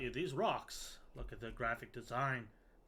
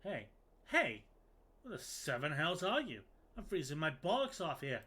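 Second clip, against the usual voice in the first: gruff guard shout; 4 semitones higher, 4 dB louder than usual. Acted. Guard confronting the player.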